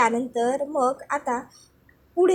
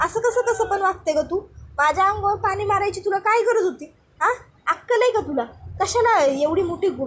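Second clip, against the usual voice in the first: higher-pitched, fast angry rant; angry scolding; 3 semitones higher than usual. Acted. Bhanya furious with his aunt over the water, ranting. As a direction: tear into her, exasperated and fast. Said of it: "भाण्या आता चिडतो".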